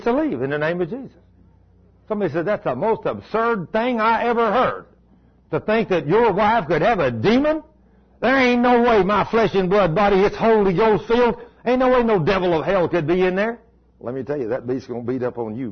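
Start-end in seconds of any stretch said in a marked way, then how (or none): 2.4-13.6 raised, scoffing voice of a doubter; mock indignant scoffer. Preacher mimicking a scornful churchgoer, loud scoff. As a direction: play the doubter outraged at the idea.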